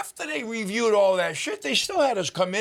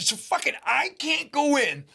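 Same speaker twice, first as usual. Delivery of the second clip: mock shouting at the agent; retold angry rant; 7 semitones higher, slower than usual. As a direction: replay the fury at the border agent, laughing through it. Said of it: "So, yeah, I was a little pissed".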